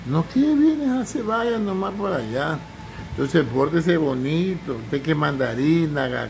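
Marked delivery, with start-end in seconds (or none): 0.1-2.6 mock shooing away. Family turns away a visitor.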